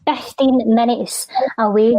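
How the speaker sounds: spoken word poem. Acted. Poet reciting to Celtic fans far from home, measured spoken word. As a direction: lean into each line like a performance poet.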